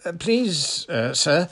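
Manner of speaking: eager, breathless schoolgirl, high and loud. A narrator's reading. Parvati politely interrupting her teacher in class, breathless. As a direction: pipe up breathlessly, pitched high. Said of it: "said Parvati breathlessly".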